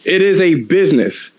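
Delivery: mock calm mother. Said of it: "She was like".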